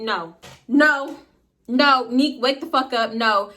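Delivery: going off, with some restraint; retold angry yelling. Storyteller replays yelling at her sleeping friend to wake, angry. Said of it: "I'm yelling. I'm going off".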